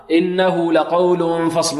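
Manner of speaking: slow إنه لقول فصل with tanween hidden before ف; ikhfa recitation. Shown as a demonstration. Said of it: "الإخفاء هنا".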